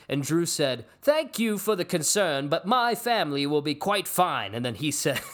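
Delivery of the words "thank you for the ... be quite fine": high, loud, grandly formal rebuff; hammy theatrical politeness; mock Shakespearean. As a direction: decline with overdone stage dignity. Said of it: "they're just so Shakespearean".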